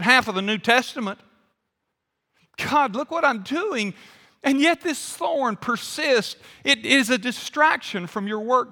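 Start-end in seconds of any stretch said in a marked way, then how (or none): 2.6-8.7 higher-pitched appeal to God; imitating a petitioner pleading his merits; acted protesting prayer. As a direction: argue your case upward, earnestly. Acted prayer arguing the case to God.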